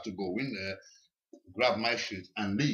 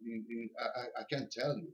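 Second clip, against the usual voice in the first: hesitant, soft reply; 7 dB quieter than usual. Retold or imitated. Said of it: "And I'm like".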